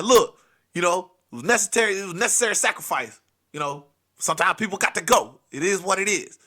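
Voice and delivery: a hint of a hard gangster; lightly voiced hardened robber; tough movie criminal. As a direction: play it cold like a heist movie. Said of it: "other dude who trying to be all hard".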